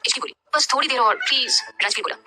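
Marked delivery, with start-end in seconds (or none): 0.5-1.6 slow, high, drowsy whine; sleepy pleading. Acted. Ishki begging Rajveer for more sleep, slow and drowsy. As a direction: beg for five more minutes, half asleep.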